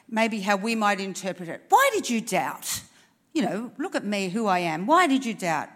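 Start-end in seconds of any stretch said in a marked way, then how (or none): 1.7-5.7 a touch of reproach, lightly scolding; mildly accusing Jesus voice; stern rebuke. Retold or imitated. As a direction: chide him mildly for doubting. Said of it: "people can read that like".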